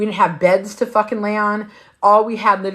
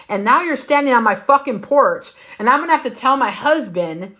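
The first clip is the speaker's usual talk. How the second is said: high-pitched reenacted tirade at her ex; retold fury; 3 semitones higher than usual. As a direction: relive telling him off on the porch.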